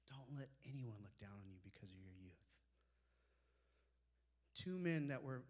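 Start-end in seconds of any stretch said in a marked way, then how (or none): 0.1-2.4 gentle scripture. Acted. Scripture quoted softly.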